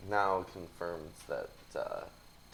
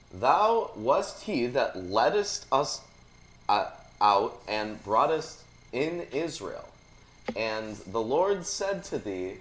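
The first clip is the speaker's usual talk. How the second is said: scripture reading. Acted. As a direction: declaim the old verse phrase by phrase. Reads scripture aloud.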